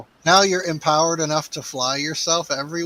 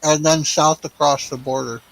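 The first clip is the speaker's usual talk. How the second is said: talking while chewing; chewing pizza while talking; mouth full; 3 semitones higher, 4 dB louder than usual. Real, not acted. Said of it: "Out with your mouth full".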